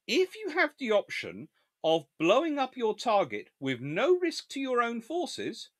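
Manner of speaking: high-pitched, insistent public instruction; emphatic lecture. Real, not acted. Commentator advising future commanders, emphatic high lecture. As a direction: spell it out emphatically, pitched well up.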